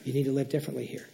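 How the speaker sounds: low, softened, kindly word from God; gentle correction. Acted. Pastor voicing God's answer about change, gentle correction. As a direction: break it to them gently. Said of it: "God will gently say to you".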